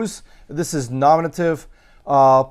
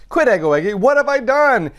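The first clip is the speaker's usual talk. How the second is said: higher-pitched rhetorical outcry; impassioned declaiming; 8 semitones higher, 3 dB louder, faster than usual. Acted. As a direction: declaim it like a dismayed orator. Acts out the orator's exclamation.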